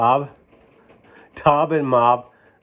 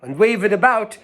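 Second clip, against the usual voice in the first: high, louder waiter hushing a diner; a fussy waiter begging him not to shout; waiter's voice; 10 semitones higher, 3 dB louder than usual. Acted. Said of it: "Said the waiter".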